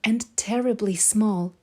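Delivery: lilting storybook read-aloud; story narration. A narrator's reading. Reading The Snail and the Whale aloud to children, lilting storybook voice. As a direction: tell it like a bedtime picture book. Reads a picture book aloud.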